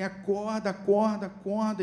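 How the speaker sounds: high, insistent repeated calls; retold urgent plea to wake, pitched high; urgent waking call. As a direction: keep calling to rouse someone unconscious. Surgeon rousing patient, repeated.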